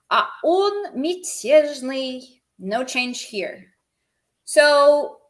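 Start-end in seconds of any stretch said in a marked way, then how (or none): 0.1-2.4 whispered, unvoiced, slow. Real, not acted. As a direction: breathe it as a whisper. Whispered aside.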